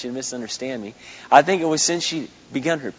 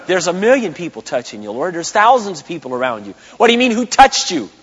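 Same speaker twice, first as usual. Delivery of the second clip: louder and higher mocking disbelief; razzing disciples; 4 semitones higher, 8 dB louder than usual. Disciples razzing Jesus in the crowd, loud mocking disbelief. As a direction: scoff at him, rising to a shout. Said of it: "I can just see the disciples razzing Jesus".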